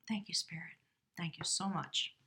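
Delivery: soft unvoiced whisper of thanks. Real, not acted. Reader thanking Spirit after drawing the rune, whispered. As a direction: breathe the thanks out, barely voiced.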